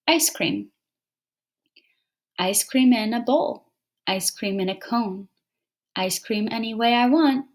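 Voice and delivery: measured poem reading with pauses at line ends; reading a poem aloud. Shown as a demonstration. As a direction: read it to the class, pausing at each break. Teacher reads poem aloud.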